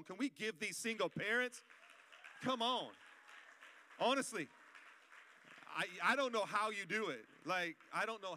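loud call for applause; rallying shout. Real, not acted. Pastor urging the congregation to cheer, loud. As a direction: whip up the crowd's cheer.

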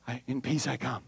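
low, soft, grave reply; a deep, hushed oracle-like answer; solemn prophet. Retold or imitated. Preacher voicing Samuel answering the elders, low and hushed.

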